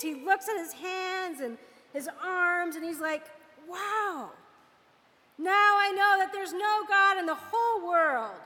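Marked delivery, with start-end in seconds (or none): 3.7-8.4 raised pitch, mild acted wonder; amazed. Healed Naaman at the river, acted amazement. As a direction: marvel aloud, stretching the first exclamation. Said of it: "Naaman is amazed".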